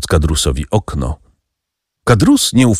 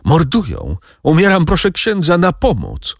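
high, straining call with last strength; dying call; 9 semitones higher than usual. A narrator's reading. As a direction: call out with your final breath. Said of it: "zawołał resztką sił". (wołanie resztką sił)

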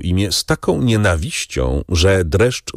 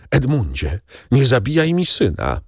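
raised, pleading mother's voice; desperate plea; 6 semitones higher than usual. A narrator's reading. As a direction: beg him for your son's life. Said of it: "złożyła ręce w geście rozpaczy i rzekła". (błagalnie, podniesionym głosem matki)

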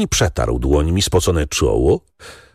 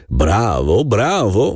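put-on drunken yell; 3 semitones higher, slower than usual. A narrator's reading. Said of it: "wrzeszczał pijany Korowicini".

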